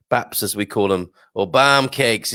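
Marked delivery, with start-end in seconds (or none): 1.3-2.3 mock northern accent. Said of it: "terrible accent there".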